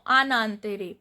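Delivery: "an antare" run together through the N; French liaison. Shown as a demonstration. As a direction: sound the N linking "an" to "antare". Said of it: "this is called liaison in French".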